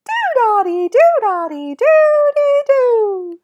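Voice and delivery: loud, squeaky, drawn-out rhythm chant; super high-pitched voice. Shown as a demonstration. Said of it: "with a super high-pitched voice".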